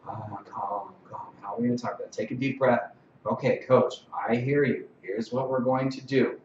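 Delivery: soft, composed delivery easing into normal talk; calm presence. Shown as a demonstration. Ref reassuring an upset coach, calm and controlled. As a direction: settle them down quietly, without condescending. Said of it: "just be like".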